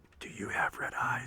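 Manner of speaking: soft, breathless whisper.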